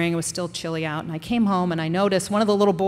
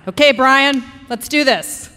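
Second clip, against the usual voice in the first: fired up; 6 semitones higher, 10 dB louder than usual. Retold or imitated. Rallying the boy, fired up.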